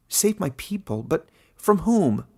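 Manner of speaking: shocked question. A narrator's reading. Caleb shocked.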